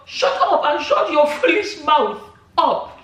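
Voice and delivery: slow, mock-furious reading of the comment; mock angry scold. Reading a vexed Nigerian's comment, slow mock anger. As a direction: read it like the vexed commenter, drawn out. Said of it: "the guy vex".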